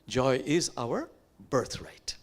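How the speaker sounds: slow whispered declaration. Real, not acted. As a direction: whisper it slowly. Key line after verse.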